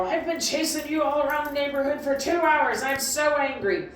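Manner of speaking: a hint of a fed-up owner scolding; half-hearted angry scold; mock telling off a dog who ran off. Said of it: "you don't yell at her, go".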